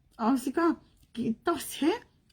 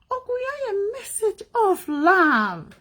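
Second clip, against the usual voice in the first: crying; 8 semitones higher, 3 dB louder, slower than usual. Real, not acted. Tearful plea about being hurt.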